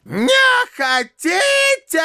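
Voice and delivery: high, slow shrieking squeal; furious shriek. A narrator's reading. Widow shrieking at the runaway bride, high furious squeal. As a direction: shriek it out of breath with rage. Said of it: "взвизгнула Анфиса Петровна, задыхаясь от злости".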